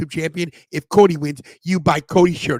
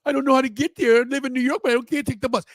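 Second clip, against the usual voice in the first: mocking whiny viewer; 4 semitones higher than usual. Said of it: "Stop saying".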